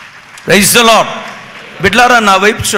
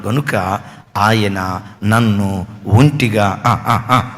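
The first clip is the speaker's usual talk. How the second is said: slow, softer, breaking with emotion; 6 dB quieter, much slower than usual. Acted. The preacher, moved, quotes Jesus with a breaking voice. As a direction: let it choke up and stretch out.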